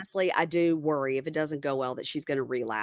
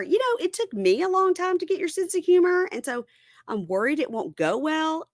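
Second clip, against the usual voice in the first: tagged 1; 12 semitones higher than usual. Retold or imitated. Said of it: "he says to her".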